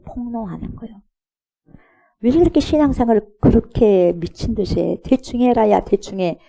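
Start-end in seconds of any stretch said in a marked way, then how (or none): 2.2-6.4 scoffing. Retold or imitated. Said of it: "본인 스스로 입에서 드러내는 거죠".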